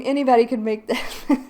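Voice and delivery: ordinary talk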